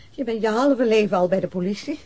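ordinary talk, nothing marked

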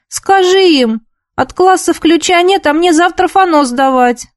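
high, whining complaint; whiny plea. A narrator's reading. Girl whining that she can't get the key. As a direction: plead like a put-upon schoolgirl. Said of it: "плаксиво протянула она".

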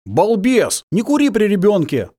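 sharp telling-off of a careless friend; scolding. Acted. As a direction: scold him like a fool. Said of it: "отчитал его Димка".

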